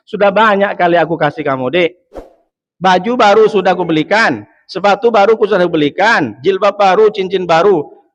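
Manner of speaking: mildly exasperated acted husband. Husband tells wife what he already bought, mildly exasperated. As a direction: protest lightly, listing each purchase.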